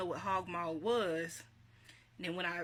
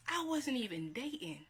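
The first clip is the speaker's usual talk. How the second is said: incredulous protest; 6 semitones higher than usual. Real, not acted. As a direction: protest it in comic disbelief, pitched up. Protesting the wedding dress gift.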